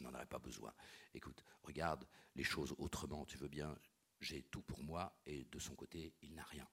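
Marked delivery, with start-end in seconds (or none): none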